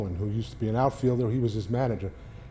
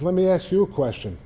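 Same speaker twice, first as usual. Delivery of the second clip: getting mad; 6 semitones higher than usual. Retold or imitated. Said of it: "now I'm getting mad".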